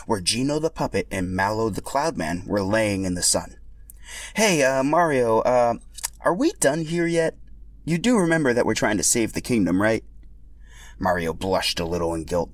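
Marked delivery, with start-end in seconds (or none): 4.3-10.0 slightly higher, impatient nagging; impatient companion. Acted. Companion pressing Mario to get back to the quest, impatient. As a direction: hurry your friend along.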